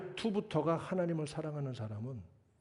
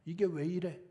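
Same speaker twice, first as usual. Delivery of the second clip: demanding; 4 semitones higher than usual. Retold or imitated. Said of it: "어딜 따져?".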